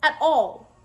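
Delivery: high, loud, slow disbelief; high slow incredulous jab; incredulous mockery. Real, not acted. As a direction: ask if anyone's home up there.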